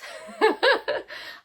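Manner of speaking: high, loud breathy burst of laughter; sudden giggle at her own accent; embarrassed laugh. Real, not acted. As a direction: laugh it off at yourself.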